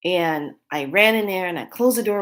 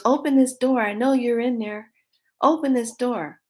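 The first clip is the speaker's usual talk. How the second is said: higher, louder demanding voice; mock menacing pursuer; 6 semitones higher, 3 dB louder than usual. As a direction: bang on the door with words. Pursuer at the door.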